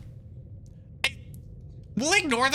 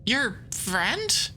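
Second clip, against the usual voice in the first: puzzled whisper. Acted. Puzzled at game text.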